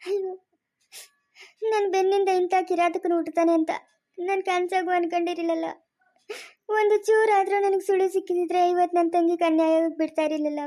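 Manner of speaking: crying in anguish over a betrayal; tearful lament. Acted. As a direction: wail your regret through tears. Brother laments kin's betrayal, crying.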